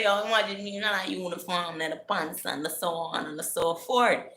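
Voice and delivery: high-pitched gushing; carried away, high and eager; excited. Retold or imitated. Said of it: "I'm getting excited".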